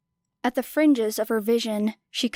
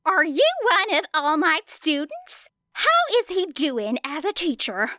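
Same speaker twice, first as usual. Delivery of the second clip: raised, higher reporter voice, pushing a question; pushy reporter shouting; 7 semitones higher than usual. A narrator's reading. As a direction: shout the question down at a kid in a crowd. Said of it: "shouted down at her".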